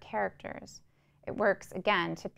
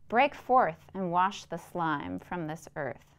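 slow prayer; 4 dB louder, slower than usual. Acted. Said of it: "he prayed".

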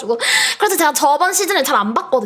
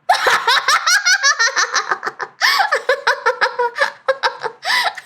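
high burst of laughter; 12 semitones higher than usual. Real, not acted. Goal scored, bursts out laughing. (높게 터지는 웃음)

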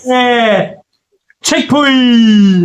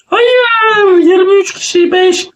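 high dismayed outburst; shocked cry; 10 semitones higher, slower than usual. Real, not acted. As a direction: gasp it out in disbelief. Players overtaking them in the race.

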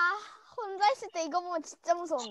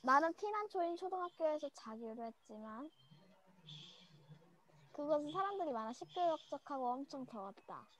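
story reading. Acted. Reads scary story aloud.

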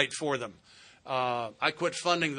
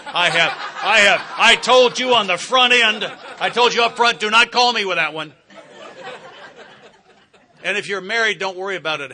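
laughing; 7 semitones higher, 13 dB louder than usual. Real, not acted. Laughing warning about attracting women.

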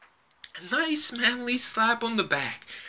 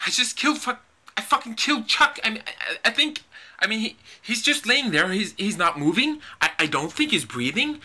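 shaken, stumbling over words; panicked stammer. Acted. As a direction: panic after the killing. Panicked stammering after killing Chuck.

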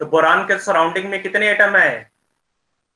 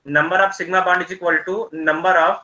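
very slow, each word drawn out; slowly; much slower than usual. Real, not acted. Teacher slows down so students hear through the lag. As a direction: spell it out slowly over a breaking line. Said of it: "slowly बोल रहा हूँ ताकि आवाज़ cut भी रहा".

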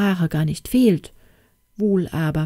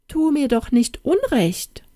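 higher, plaintive cabbage voice; cabbage pleading; 8 semitones higher than usual. Acted. Cabbage answers the girl, high and plaintive. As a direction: protest being wronged, plaintive. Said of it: "antwortete der Kopf".

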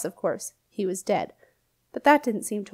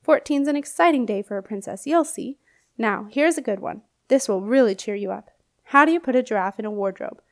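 put-on hearty old knight, louder and brighter; old knight ghost; 4 dB louder than usual. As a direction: greet the princess like a jolly old soldier. Knight tells a joke.

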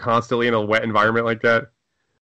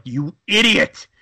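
angry demon boss; 4 semitones higher than usual. Pretend. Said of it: "they're like".

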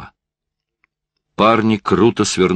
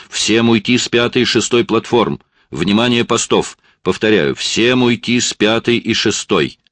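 alarmed shout over radio; 6 semitones higher than usual. A narrator's reading. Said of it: "Дежурный испугался".

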